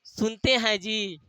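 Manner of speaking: soft, slow, sugary call to the husband; a wife sweetly calling her husband while angry, soft and drawn out; sweet wife's call. Retold or imitated. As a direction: coo it lovingly, like a wife who is secretly cross. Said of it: "तो बड़े प्यार से कहेगी".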